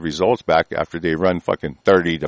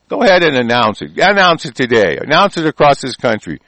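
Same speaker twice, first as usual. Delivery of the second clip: defiant dare; 4 semitones higher, 5 dB louder than usual. Real, not acted. Dares officials to announce it.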